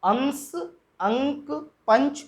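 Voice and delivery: अंश अंक पंच अंग अंगूर पंप with a clear nasal consonant through the nose; pronunciation demo. Shown as a demonstration. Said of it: "अब देखें अंतर". (अनुस्वार वाले शब्दों का नासिक उच्चारण)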